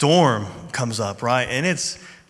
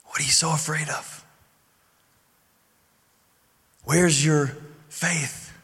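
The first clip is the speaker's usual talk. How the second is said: gently smiling; 4 dB quieter than usual. Retold or imitated. Jesus to his frightened disciples, gently smiling. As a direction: ask it gently, leaving long pauses. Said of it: "he has to be smiling when he says this".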